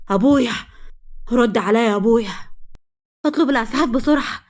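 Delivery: loud, urgent cry to a father; alarmed calling. Acted. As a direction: call out to rouse him, then plead for help. Daughter calls her fainted father.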